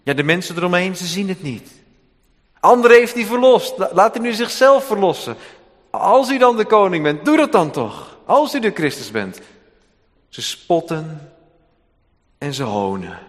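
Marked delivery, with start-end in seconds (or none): 2.6-9.4 mocking crowd. Mockers jeering at the cross.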